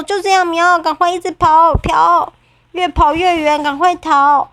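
high, loud urgent cat voice; urgent kitten. Acted. 喵喵催促快跑. (小猫急促地喊，声音更高更响)

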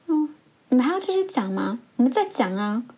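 sarcastic telling-off, retold; retold angry scolding. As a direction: dare the chattering class, imitating a fed-up teacher. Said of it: "他突然一个大爆发".

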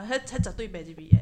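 Taiwan-accented Mandarin, playful; joking Taiwanese guoyu accent. Shown as a demonstration. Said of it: "用台湾国语来讲一下".

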